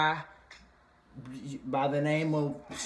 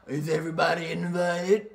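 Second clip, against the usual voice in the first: messy shade; 3 dB louder than usual. Retold or imitated. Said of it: "talking about".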